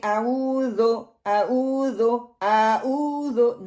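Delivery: slow आऊज़ो ending in a spread O, not U; wrong final vowel. Shown as a demonstration. Teacher showing learners what to avoid, आऊज़ो ending in O. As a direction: let the last vowel of आऊज़ो open into O. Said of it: "अब इसको ये ना करें".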